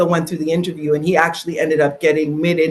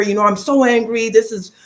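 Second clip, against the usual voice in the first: higher, raised retelling of fury; retold anger; 5 semitones higher than usual. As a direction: vent it as you tell it. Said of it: "I said to her".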